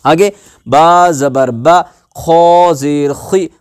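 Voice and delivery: measured chant with drawn-out letter names; teacher leading a syllable drill; spelling drill recitation. Shown as a demonstration. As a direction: recite each letter and vowel steadily, then join them.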